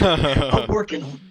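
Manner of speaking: low chuckling admission; sheepish laughing reply. Real, not acted. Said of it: "he's being very modest".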